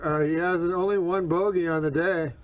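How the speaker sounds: golf commentator voice; calling the action over a crowd; announcer voice. Real, not acted. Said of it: "speaking like an announcer".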